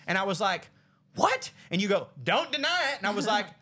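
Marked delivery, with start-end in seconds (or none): 1.2-1.5 high-pitched mock "What?"; retold shock. Brother hearing his sister's accusation, high shocked retort. 2.2-3.0 higher, mock stern retort; retold accusation. Sister accusing her brother, mock stern retort.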